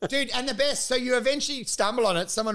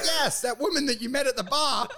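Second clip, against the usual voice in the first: laughing mock reveal; 6 semitones higher than usual. Acted reveal, laughing, higher.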